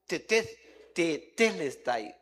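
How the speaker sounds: slow, careful Greek "tetelestai", syllable by syllable; Greek word spoken. Shown as a demonstration. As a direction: sound out "tetelestai" slowly as te-te-LES-tai. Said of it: "Que traducido es".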